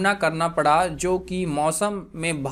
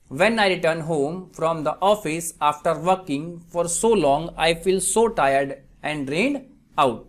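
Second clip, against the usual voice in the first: very slow, spaced-out example reading; slow dictation; 2 semitones lower, much slower than usual. Shown as a demonstration. Teacher gives students an English translation, slow dictation. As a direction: read it out slowly, phrase by phrase. Repeats example sentence slowly.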